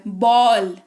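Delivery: बॉल said with a clear open vowel; pronunciation demo. Shown as a demonstration. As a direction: model बॉल for the class. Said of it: "तो आ सुनाई दे रहा है यहाँ पे". (बॉल का साफ उच्चारण)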